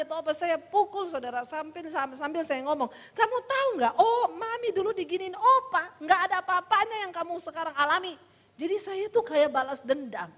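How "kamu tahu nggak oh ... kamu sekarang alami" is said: higher-pitched mock scolding; retold scolding. Mother hitting her children as she talks, scolding. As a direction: re-enact a mother lecturing her kids.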